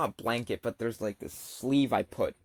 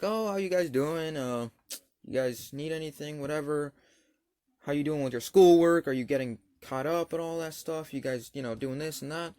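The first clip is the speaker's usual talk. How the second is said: higher-pitched phone check-in, imitated; friendly social worker; 4 semitones higher than usual. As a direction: lightly voice a chatty caseworker.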